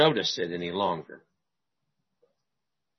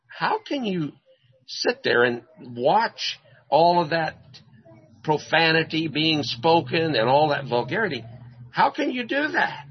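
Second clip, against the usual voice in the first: higher, incredulous rebuke; indignant scolding; 4 semitones higher than usual. Retold or imitated. Preacher rebuking the young ladies, indignant. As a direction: wag a finger at the girls.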